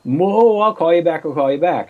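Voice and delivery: hurried wife. Retold or imitated. Wife hangs up quickly.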